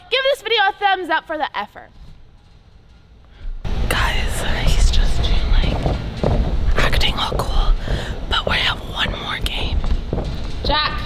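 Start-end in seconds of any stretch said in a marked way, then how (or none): 3.9-11.0 secret whisper to camera. Real, not acted. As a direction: whisper behind his back.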